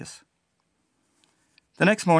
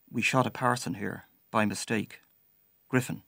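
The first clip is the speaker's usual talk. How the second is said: quiet; 5 dB quieter than usual. Retold or imitated. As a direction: murmur it like a guilty secret. Old man's agitated confession.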